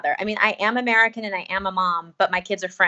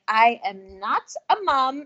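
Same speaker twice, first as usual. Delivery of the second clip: slow, deliberate "not" in protest; emphatic protest; 3 semitones higher, slower than usual. Retold or imitated. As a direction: draw out "not" and "mum" firmly. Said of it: "And I was like".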